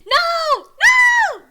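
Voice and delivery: high, loud drawn-out screams; screaming. A narrator's reading. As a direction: scream it in hammed-up horror. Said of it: "Biden and Elon scream harmoniously".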